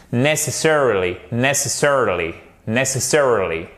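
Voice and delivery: "necessarily" with NESS stressed, falling after; insisted word stress. Shown as a demonstration. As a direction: drill "necessarily", punching NESS each time. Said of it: "c'est vraiment l'accent tonique". (« necessarily » répété, accent tonique marqué sur NESS)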